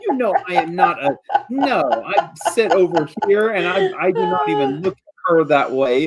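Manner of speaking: high, rushed, embarrassed protest; a flustered young hero protesting too much; flustered denial. Acted. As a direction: deny it fast, caught off guard. Kylon flustered denying a romance.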